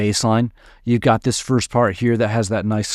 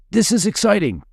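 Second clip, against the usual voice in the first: much higher, bright mock excitement for the crash; voicing the effect; 9 semitones higher than usual. Shown as a demonstration. Producer voices what a crash effect tells the listener, in mock excitement. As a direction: speak as the crash effect announcing a big moment. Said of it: "That's what it says".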